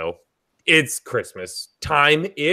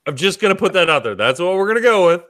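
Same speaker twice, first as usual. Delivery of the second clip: quick, failed attempt at an Irish accent; bad Irish accent; 3 semitones higher, much faster than usual. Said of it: "talk in an Irish accent".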